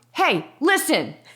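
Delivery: high, urgent, loud yell calling out. Speaker retelling calling after a woman walking away in a supermarket, retelling a yell. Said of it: "I'm like yelling at her in the supermarket".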